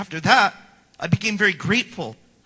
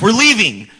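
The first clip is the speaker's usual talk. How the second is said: loud, high announcement to storm out; retold exasperated yell; angry outburst; 5 semitones higher, 8 dB louder than usual. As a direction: call it out, fed up.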